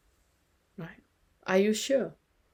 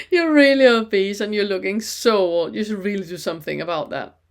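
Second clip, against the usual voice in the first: louder, a mock cutting remark; mock insult; 6 dB louder than usual. Coach playing someone insulting the listener, louder. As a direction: fling the insult out with a laugh. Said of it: "this one is one of my favorites".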